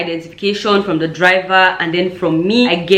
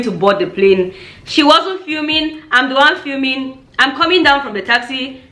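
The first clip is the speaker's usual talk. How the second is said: higher-pitched indignant challenge; indignant confrontation; 6 semitones higher than usual. Retold or imitated. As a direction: demand it like a protective big sister. Confronting the police officer, protective.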